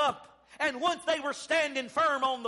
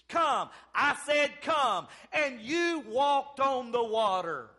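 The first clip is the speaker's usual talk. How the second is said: driving, emphatic pulpit delivery; fervent preaching; 3 semitones higher than usual. Real, not acted. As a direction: preach it with rising conviction. Preaches at full force.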